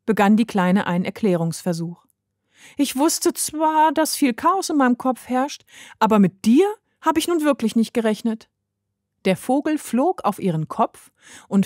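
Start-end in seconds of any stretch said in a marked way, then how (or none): 2.8-8.5 höhere Mädchenstimme, erst langsam, dann schnell; kleines Mädchen Heidi. A narrator's reading. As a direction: verwirrtes Kind erklärt sich hastig. Girl Heidi voiced. (Heidi erklärt dem Vogel verwirrt, hohe Kinderstimme)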